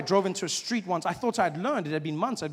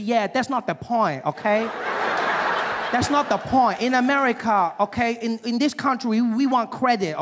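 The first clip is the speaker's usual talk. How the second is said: raised, insistent mock Asian accent; higher-pitched Asian salesman's accent; 6 semitones higher, 4 dB louder than usual. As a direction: lecture the customer in an imitated Asian accent. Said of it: "there's this Asian gentleman helping me".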